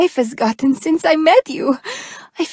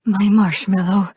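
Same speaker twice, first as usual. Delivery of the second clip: tender pet name; 4 semitones lower than usual. Acted. About to confess love to her sweetheart, tender.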